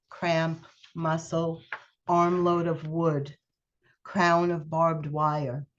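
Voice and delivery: slow, measured poetry reading; poem reading. Acted. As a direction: let each image land, unhurried. Reads her poem aloud.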